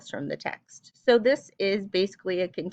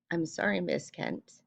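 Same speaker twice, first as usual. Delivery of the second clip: soft apology; 6 dB quieter than usual. Acted. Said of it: "with a shaky voice, Carmen whispered".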